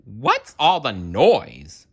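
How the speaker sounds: mouse voice. Acted. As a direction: grumble as a sleepy mouse. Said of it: "Mouse asked".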